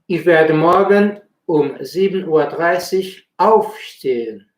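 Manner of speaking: aufstehen with auf stressed; teacher models stress on the auf in aufstehen. Shown as a demonstration. German teacher models aufstehen for Spanish learners, stress on auf. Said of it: "se tiene que enfatizar el acento en auf".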